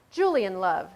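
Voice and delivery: bright, loud Australian call of his name; Australian accent. Acted. Shop girl bursting in, calling Julian, Australian accent. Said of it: "She sounded Australian".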